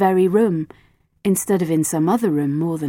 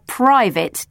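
"private" stressed, louder and drawn out; pointed stress on "private"; 4 semitones higher, 4 dB louder than usual. A narrator's reading. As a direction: lean hard on "private". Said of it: "She stressed the word private".

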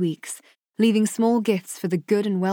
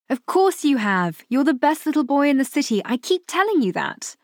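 higher, indulgent mother's voice; smiling reassurance; 7 semitones higher than usual. A narrator's reading. Mother reassuring her little boy, smiling and fond. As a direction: reassure a child with a smile in the voice. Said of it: "She couldn't help but smile".

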